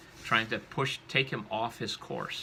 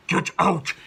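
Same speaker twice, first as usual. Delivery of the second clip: put-on loud possessed-girl growl, pitched up; gruff man's voice; 8 semitones higher, 11 dB louder than usual. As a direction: roar it out, gruff and demonic. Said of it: "She has this gruff man's voice".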